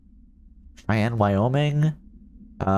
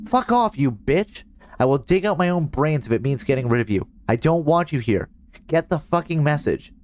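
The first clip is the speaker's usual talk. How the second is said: put-on higher, raging teen yelling at an unseen presence; furious teenager voiced while reading a transcript; angry outburst; 5 semitones higher than usual. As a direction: spit it out at someone you hate. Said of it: "subject was alone during this outburst".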